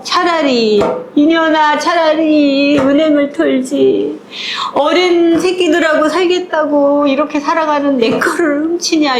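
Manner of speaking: angry, tearful wail at the thief; wailing furious mother. Retold or imitated. Mother catches a thief and wails in fury. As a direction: scream at the thief through tears. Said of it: "이러면서 울부짖지".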